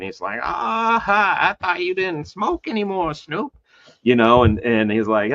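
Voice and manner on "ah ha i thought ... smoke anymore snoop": higher, chuckling tease; laughing. Retold or imitated. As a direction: laugh through the words. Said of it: "And Jay's laughing".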